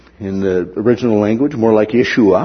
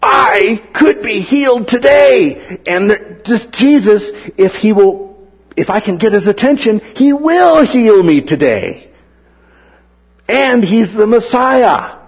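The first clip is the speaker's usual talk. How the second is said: desperate hope; 10 semitones higher, 5 dB louder than usual. Retold or imitated. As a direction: voice breaking with longing. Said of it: "He says".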